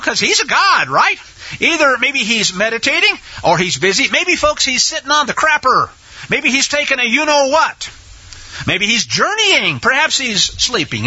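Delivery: mocking. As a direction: offer mock-helpful suggestions. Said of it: "He mocks them".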